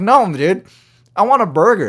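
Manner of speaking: turning down the upsell a second time, firmly; irritated insistence. Retold or imitated. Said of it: "I was so frustrated".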